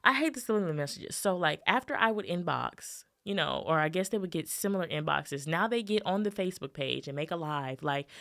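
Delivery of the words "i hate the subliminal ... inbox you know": fast, heated rant. Shown as a demonstration. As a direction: fire it off like a quick rant. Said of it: "let me rant real quick".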